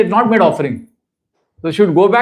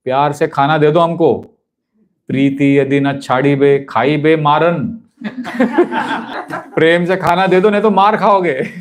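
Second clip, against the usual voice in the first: playful threat; 3 semitones lower, much faster than usual. Retold or imitated. Nitai threatens playfully, laughing.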